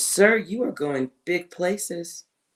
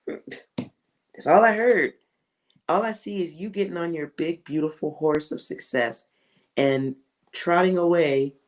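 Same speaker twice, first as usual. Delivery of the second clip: voicing the hurt wife. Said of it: "I'm feeling her, so I'm yelling".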